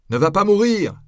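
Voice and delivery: high, loud plea; crowd cry. A narrator's reading. Crowd cries out to the condemned friar, loud and high. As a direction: shout to stop him dying. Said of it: "beaucoup criaient".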